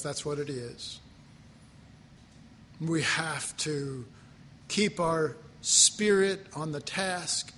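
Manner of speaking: earnest spoken prayer to the Father; congregational prayer. Acted. Pastor praying aloud over the standing congregation. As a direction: lead the church in steady prayer.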